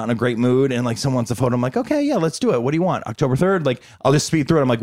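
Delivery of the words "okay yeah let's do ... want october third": much higher breezy sing-song; mock cheery autopilot. Tired actor greeting a photo-seeking fan, forced cheery and high. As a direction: fake brightness while tired.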